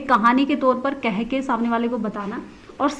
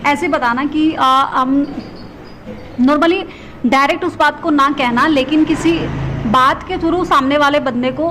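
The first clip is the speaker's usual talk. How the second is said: emphatic explaining; 2 semitones higher, 5 dB louder than usual. Real, not acted. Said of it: "explaining allegory emphatically".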